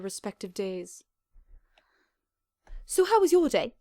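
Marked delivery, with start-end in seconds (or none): 2.8-3.7 Moondancer voice. Acted.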